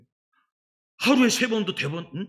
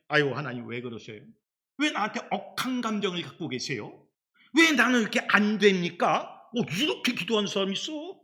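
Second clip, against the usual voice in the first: mock complaint; 3 semitones higher than usual. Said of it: "항의를 해".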